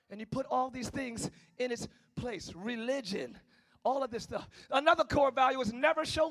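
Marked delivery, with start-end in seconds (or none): none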